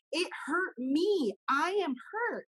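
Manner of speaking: high, slow plea that it hurt; hurt child. Retold or imitated. The hurt child insisting to the adult, slow and high. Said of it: "this is the conversation".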